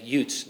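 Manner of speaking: "youths" said as "yoots"; Joe Pesci. Retold or imitated. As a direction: say "youths" with a hard t for the th. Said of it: "I appreciate Joe Pesci saying".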